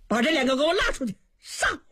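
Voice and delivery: fast, furious royal command; furious order. Acted. Enraged emperor orders the dwarfs killed, fast and furious. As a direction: bark the execution order in rage. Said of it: "勃然大怒".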